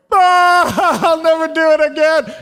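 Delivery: high, loud, giggling promise; laughing promise. Retold or imitated. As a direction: blurt it out through a laugh. Sister repents after dad's talk.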